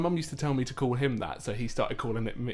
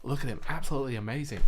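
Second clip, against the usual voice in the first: bad Steve Irwin; 2 semitones higher, faster than usual. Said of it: "That's my bad, uh, my worst attempt".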